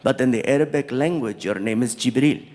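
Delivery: very low, measured, dignified prince; prince's voice. Retold or imitated. Prince explaining the name to the comic, low and dignified. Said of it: "And he's like".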